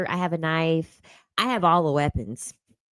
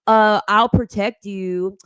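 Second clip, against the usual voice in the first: mocking men; 6 dB louder, slower than usual. Mocking men's offer.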